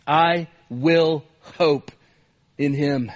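Christian preaching to self. Acted. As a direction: read the psalm as your own prayer, slowing into hope. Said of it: "He talks like this".

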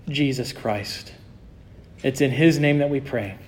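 reverent prayer voice. Real, not acted. Closing prayer.

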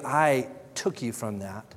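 "I" set apart and held slightly; stress on I. Acted. God retelling David's rise from the field, "I" stressed. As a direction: put the weight on "I", then continue. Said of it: "repeated emphasis on the word I".

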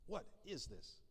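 a touch of a prim horrified Queen, soft; mock royal shock. Preacher voicing the Queen served leftovers, mildly horrified. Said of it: "she's horrified".

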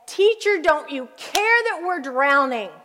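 high anxious plea; a touch of fear, high on Teacher; frightened question. Retold or imitated. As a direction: cry out in panic to the teacher. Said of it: "with this frightened question".

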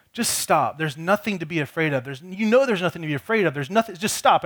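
a touch of a frustrated father telling his son to stop; impatient, insisting he just stop; frustrated dad. Retold or imitated. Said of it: "in my frustration, I go in".

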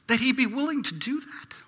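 breathless whispered wonder; awed whisper. Pretend. Believer marvelling at the cross, awed whisper. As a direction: whisper it in awe. Stunned listener hearing God's love.

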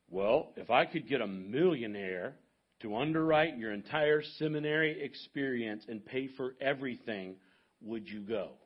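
lightly imitated deep baritone, measured and slow at first; lightly put-on deep, deliberate voice; Doctor Rogers. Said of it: "in his deep baritone voice".

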